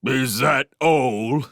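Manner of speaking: loud, slow, heated retort. Acted. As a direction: snap it back hotly. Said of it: "said Log-a-Log heatedly".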